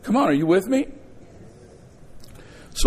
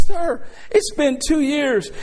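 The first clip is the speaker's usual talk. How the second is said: firm, drawn-out retort; 8 semitones higher, slower than usual. Retold or imitated. Answering attorney on the stand.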